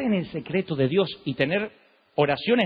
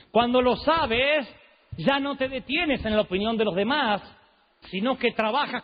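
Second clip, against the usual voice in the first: slow and higher, lightly voiced; Motesi imitation; 4 semitones higher than usual. Preacher still imitating Motesi's counsel, slow. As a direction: draw it out like the old preacher. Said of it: "tiene como el último tono".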